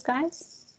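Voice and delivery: hiccuping mid-word; hiccups. Real, not acted. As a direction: talk through a hiccup. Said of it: "I've got the hiccups now".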